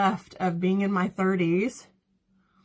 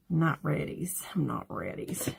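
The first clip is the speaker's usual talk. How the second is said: put-on lower, softer pouty baby talk; baby-talk whine; 5 semitones lower, 6 dB quieter than usual. Dreading her fortieth birthday, she pouts in mock baby talk. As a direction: sulk like a child who won't go. Whining about turning forty.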